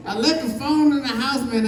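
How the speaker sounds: laughing plea. Retold or imitated. Desperate man explains.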